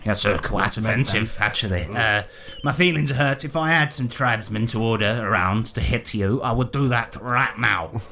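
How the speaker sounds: hearty, swearing colonial gent greeting the party; a lightly voiced jolly British explorer; bluff British adventurer. Willie greets the newcomers, a lightly voiced hearty British gent.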